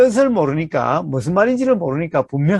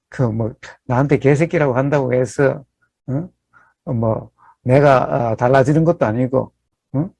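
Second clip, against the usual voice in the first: lower, easygoing, shrugging it off; a lightly voiced serene sage, unbothered by insults; unbothered Buddha; 5 semitones lower than usual. Monk voicing the Buddha brushing off an insult, calm and low. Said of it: "부처님이라면은".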